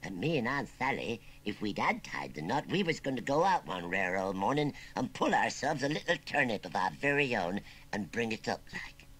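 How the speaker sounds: put-on understated wistful country old-timer; mournful. Old uncle imagining the child he never had, mournful. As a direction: reminisce with a touch of sorrow. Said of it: "went on Wurzel Gummidge mournfully".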